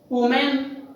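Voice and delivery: "woman" as WOO-men for the plural women; wrong pronunciation. Shown as a demonstration. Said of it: "No, it's wrong".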